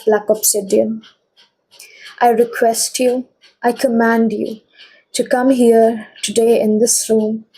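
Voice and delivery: steady, earnest invocation; protective prayer. Acted. Reader prays for group twos' protection, steady and earnest. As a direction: call on the stone with calm command.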